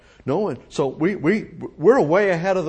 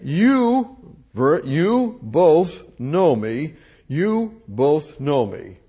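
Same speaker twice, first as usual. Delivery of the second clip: raised voice; much slower than usual. Acted. Jesus cries out to the temple crowd, in a raised voice. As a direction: proclaim it slowly to the crowd. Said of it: "He raised his voice and elevated it".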